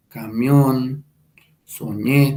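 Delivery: "camión, soñé" stressed on the last syllable; final-syllable stress. Shown as a demonstration. Teacher giving Spanish examples of oxytones, "camión, soñé" stressed at the end. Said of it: "para nosotros en la última sílaba".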